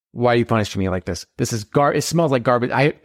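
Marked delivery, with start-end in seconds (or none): none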